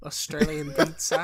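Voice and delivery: firmer go at Australian, rising ending; playful Australian accent; Australian accent attempt. Shown as a demonstration. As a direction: try it in put-on Australian. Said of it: "I forgot how to do the Australian accent".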